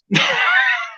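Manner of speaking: sudden high laughing shriek. Real, not acted. Guest cracks himself up on the show, shrieking laugh. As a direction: let out a wild high cackle. Wild laugh after his boast.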